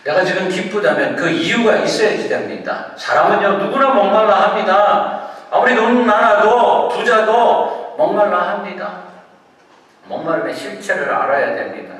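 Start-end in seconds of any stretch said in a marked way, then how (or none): 0.0-9.0 loud, high-pitched sermon delivery; forceful preaching. Real, not acted. Preacher telling congregation everyone thirsts, forceful preaching.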